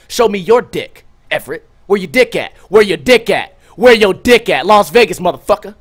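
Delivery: hammed-up goading, punching each repeat harder; mock taunting. Acted taunt repeated and building louder.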